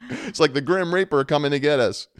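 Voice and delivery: loud, high mock panic; freaking out. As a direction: wail in exaggerated dread, loudly. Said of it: "freaking out".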